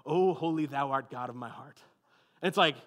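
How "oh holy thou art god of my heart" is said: lightly put-on lofty old-fashioned prayer tone; a hint of churchy pomp, slightly lower; mock King James prayer voice. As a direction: parody someone praying in King James English. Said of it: "downshifts into King James".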